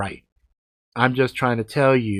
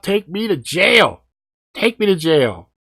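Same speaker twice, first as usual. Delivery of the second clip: retold desperate plea; 8 semitones higher, 5 dB louder than usual. Begging the cop to arrest him.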